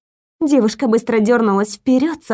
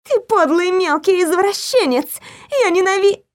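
shrill yell; 7 semitones higher than usual. A narrator's reading. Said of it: "перешла на ультразвук".

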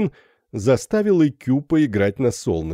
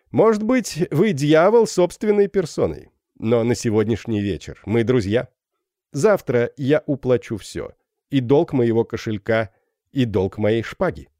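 бравый капитан; 3 semitones higher than usual. Acted. Феб отвечает незнакомцу.

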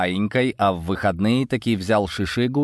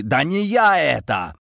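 higher, stretched-out cry; wailing protest; 6 semitones higher than usual. A narrator's reading. The Serb on the floor denying the theft, wailing. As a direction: wail your innocence, drawing it out. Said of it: "завопил серб откуда-то снизу".

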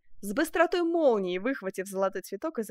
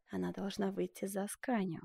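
soft whispered demand; 8 dB quieter than usual. A narrator's reading. Benvenuto pressing the duchess in a whisper. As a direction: press her quietly. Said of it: "также шёпотом ответил Челлини".

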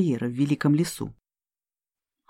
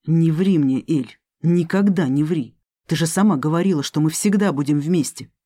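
through gritted teeth. Acted. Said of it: "процедил".

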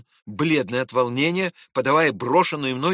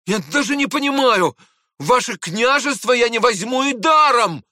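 higher, louder indignant outburst; offended outburst rising to a shout; flaring up; 10 semitones higher, 6 dB louder than usual. Acted. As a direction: burst out hotly, stung by the insult. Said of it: "Я вспыхнул".

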